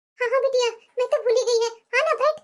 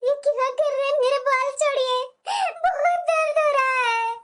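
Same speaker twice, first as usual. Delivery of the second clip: crying in pain. Acted. Wife's hair pulled by husband.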